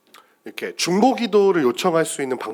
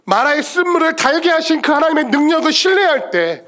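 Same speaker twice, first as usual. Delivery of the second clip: high, driving pulpit proclamation; impassioned preaching; 8 semitones higher, 4 dB louder than usual. Real, not acted. Preacher urging the church to trust God's power, impassioned. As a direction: proclaim it with full conviction.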